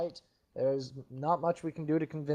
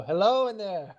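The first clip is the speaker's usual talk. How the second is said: magically amplified voice; 5 semitones higher than usual. Pretend. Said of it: "my voice is now three times louder".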